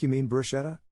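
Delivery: incredulous correction. Retold or imitated. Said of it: "looked at me like, "W T F".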